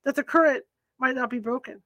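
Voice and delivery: measured, even storyteller's read; story narration. A narrator's reading. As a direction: read the tale to the listeners at an easy pace. Reads story aloud on stream.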